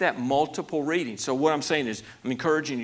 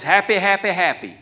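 louder, higher imitated catchphrase; Phil Robertson catchphrase; 5 semitones higher, 7 dB louder than usual. Preacher quotes the Duck Dynasty guy, catchphrase delivered emphatically. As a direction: lightly mimic a TV personality's catchphrase, punched up. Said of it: "Phil always says".

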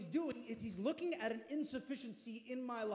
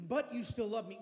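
louder prayer; 4 dB louder than usual. Shown as a demonstration. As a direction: declare it with growing force. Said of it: "look at God and say".

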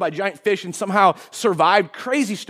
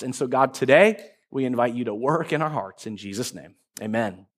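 prayer; 3 semitones lower than usual. Real, not acted. Pastor leads a prayer.

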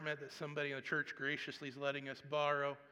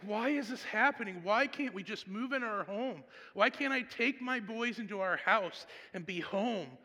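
exasperated; 5 semitones higher than usual. Retold or imitated. Pastor venting to God about the house, exasperated and raised. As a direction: complain to God, fed up. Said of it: "And I was like".

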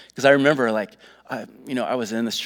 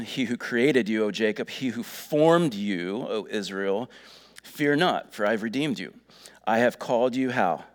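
declaring scripture. Retold or imitated. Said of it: "He says".

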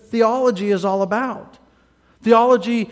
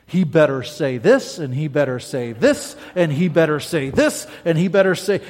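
demanding listener; 5 semitones lower than usual. Acted. Preacher acting a listener with a checklist, demanding. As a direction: tick off demands like a stern critic. Imitating a demanding theology buff.

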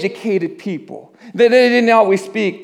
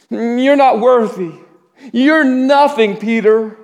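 raised, slow, emphatic condemnation; accusing; 4 semitones higher, slower than usual. Acted. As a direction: act out an accusing inner voice. Rooster's crow voiced as accusation.

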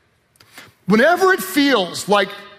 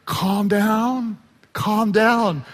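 soothing calm down; much slower than usual. Retold or imitated. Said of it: "Jesus is kinda like".

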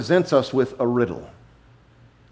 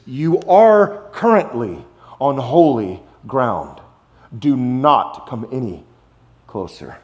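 slow, deliberate command; weight each word of the warning; slow grave divine warning; solemn command; 2 semitones lower, slower than usual. Retold or imitated. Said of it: "very strong".

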